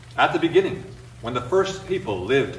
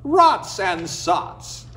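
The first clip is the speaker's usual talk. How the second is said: muttered grumble; 4 semitones higher, much slower than usual. Acted. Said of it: "muttered Oye".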